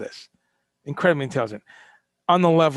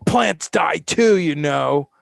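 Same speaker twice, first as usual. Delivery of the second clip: mocking quote; 3 dB louder, much slower than usual. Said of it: "attacked him and said".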